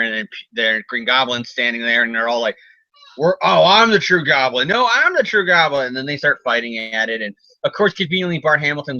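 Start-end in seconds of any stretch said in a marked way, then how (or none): 3.2-5.9 raised-pitch mock bickering; lightly acted back-and-forth claim; retold squabble. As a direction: insist childishly over a rival. Two Goblins squabble.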